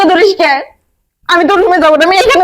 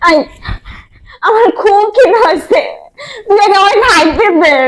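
crying hunger. Acted. Hungry madwoman begging, crying.

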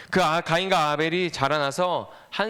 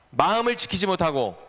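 measured line for a group to echo; teacher's call for choral repetition; repeat-after-me; 3 semitones higher than usual. Shown as a demonstration. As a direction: lead the congregation in reciting it. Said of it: "따라해봅시다".

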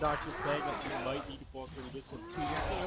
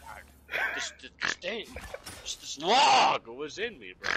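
amazed; 5 dB louder than usual. Retold or imitated. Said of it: "he'll be so surprised".

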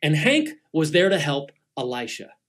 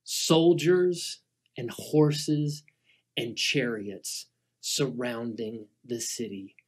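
hushed suspense; 6 semitones lower, 8 dB quieter, slower than usual. A narrator's reading. Tense hushed storytelling.

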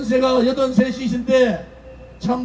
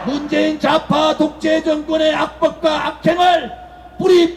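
roaring rallying speech; 4 semitones higher than usual. Acted.

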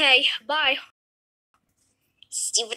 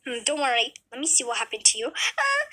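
lightly voiced doctor. Doctor calms Kayla.

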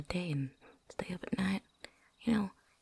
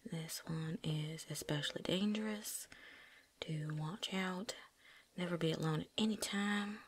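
reading aloud. Acted. Reads boss lady's written warning aloud.

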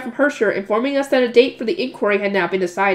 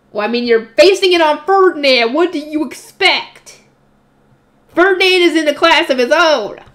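amused aside; 5 semitones higher, 4 dB louder than usual. Real, not acted. Reader defends the comparison to Ferdinand, amused and louder. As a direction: shrug it off, amused.

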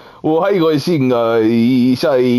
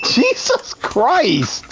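1 stunned exclamation; 8 semitones higher, much slower than usual. Real, not acted. Reacting to the racist prank.

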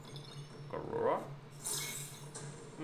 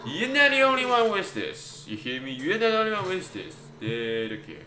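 high, hammed-up French accent; put-on French accent, pitched up; 7 semitones higher, 4 dB louder than usual. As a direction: protest in a mock French accent. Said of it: "I start to enjoy the French accent".

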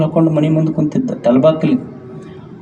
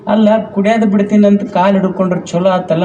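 higher and faster, insisting on ಅಲ್ಲ; exasperated neighbour; 5 semitones higher, faster than usual. Retold or imitated. Old neighbour repeating her question to the wife, exasperated. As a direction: push the repeat with mock impatience. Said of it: "ಮಗ್ಗಲ ಮನಿ ಮುದುಕಿ ಬಂತು".

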